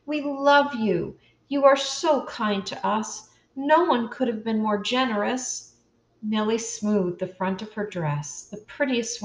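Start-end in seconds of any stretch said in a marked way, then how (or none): 0.0-5.7 heartfelt. A narrator's reading. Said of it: "with her whole heart".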